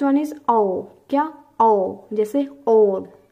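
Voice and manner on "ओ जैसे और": ओ and और drawn out slowly; teacher stretching the vowel in और; slow vowel demo. Shown as a demonstration. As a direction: say और slowly for the class. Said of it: "किसकी sound आ रही है?".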